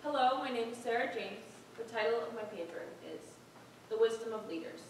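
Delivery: composed, measured introduction; confident. Acted. Contestant told to breathe and be confident, composed delivery. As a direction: settle down and announce it with confidence.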